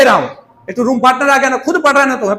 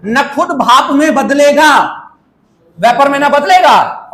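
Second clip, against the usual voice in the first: slow emphasis; slower than usual. Shown as a demonstration. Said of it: "explaining non-volatile solute".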